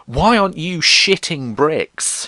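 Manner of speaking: exasperated. Real, not acted. Exasperated at calm people.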